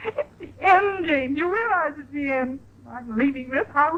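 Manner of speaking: high, crying declaration; wife sobbing as she tells her husband she is leaving; tearful. Acted. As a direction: tell him it's over through tears. Wife breaks down after threat.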